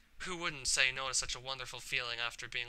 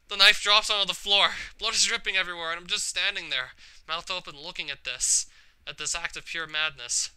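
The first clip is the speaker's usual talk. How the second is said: loud, high horrified telling; shocked loud narration; 4 semitones higher, 10 dB louder than usual. Acted. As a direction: blurt it out in horror. Narrating shock after cutting.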